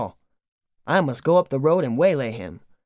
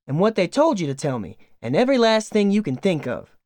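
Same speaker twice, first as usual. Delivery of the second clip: higher, chattering country wife hungry for news; eager farm wife; 4 semitones higher than usual. Acted. Farm wife begging her guest for family news, eager and higher. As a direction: pour out the questions like a doting aunt.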